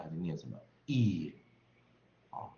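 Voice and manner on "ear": "ear" as a vowel with the final R dropped; British ear without R. Shown as a demonstration. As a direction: say "ear" leaving the R unsounded. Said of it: "不要把那个R写出来". (英式 "ear"，去掉儿音)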